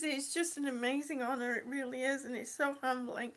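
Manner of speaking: soft, humbled, close to tears; hushed, overcome with honor; quietly holding it together; tearing up. Real, not acted. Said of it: "I'm not tearing up".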